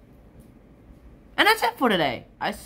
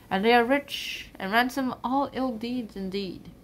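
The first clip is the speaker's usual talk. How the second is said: poem recitation; 3 dB louder than usual. Acted. Recites the sonnet aloud.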